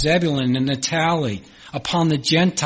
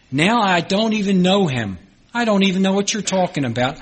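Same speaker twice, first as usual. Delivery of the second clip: higher-pitched, insistent protest; escalating denial; 4 semitones higher than usual. Acted. Peter disowning Jesus to his accusers, insistent escalating denial. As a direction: pile on the denials, higher and quickening.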